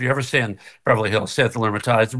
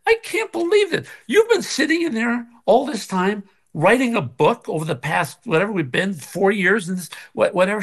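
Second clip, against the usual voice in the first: laughing disbelief; 7 semitones higher than usual. Retold or imitated.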